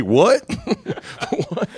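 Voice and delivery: shocked what. Retold or imitated. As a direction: blurt it out, stunned. Mock reaction of a singer.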